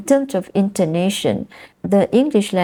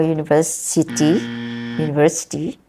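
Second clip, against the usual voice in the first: "university" with stress lost or moved to the end; faster than usual. Shown as a demonstration. Teacher imitates people who lose that stress, moved stress. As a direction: say "university" without stressing VER. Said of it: "it's moved".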